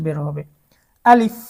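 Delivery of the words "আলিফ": আলিফ quick, with air released on the final f; airy final f. Shown as a demonstration. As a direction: let a little air out between lip and teeth ending আলিফ. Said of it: "বাতাস বের হয় কিনা". (আলিফ-এর শেষে একটু বাতাস বের করে)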